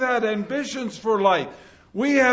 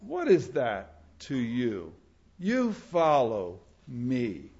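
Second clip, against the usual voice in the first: low, soft, very slow; Jesus' call; 10 semitones lower, 7 dB quieter, slower than usual. Acted. Jesus calling Peter to follow, hushed slow call. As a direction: let the words sink in, hushed and slow. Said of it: "he calls out and says".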